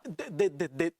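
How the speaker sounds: stuttering on one syllable; stammer, trying to stop the alarm; panicked stammer. Acted. Man pleading with woman who screamed, panicked stammer.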